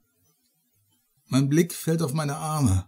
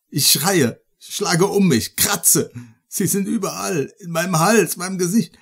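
panicked; 4 semitones higher, 5 dB louder than usual. Acted. Ich schreie.

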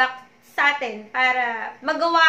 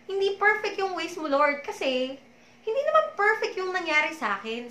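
higher, tearful protest; crying; 5 semitones higher than usual. Retold or imitated. Protesting to the Lord while crying. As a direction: push it out through tears. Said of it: "And I was crying".

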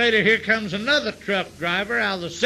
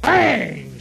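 loud bang; 6 dB louder than usual. Acted. Piano chord imitated loudly.

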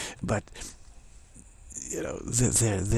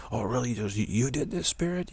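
incredulous scolding, pitch leaping up at the end; rising mock disbelief; mock angry God; 2 semitones higher than usual. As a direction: play an offended God catching the culprit. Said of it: "God's gonna be so angry".

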